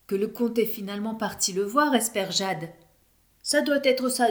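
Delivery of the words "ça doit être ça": bright excited burst, higher and louder; eager. A narrator's reading. Kevin jumping up, excited to find the director. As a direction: leap up with the idea. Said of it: "dit Kevin en sautant sur ses pieds".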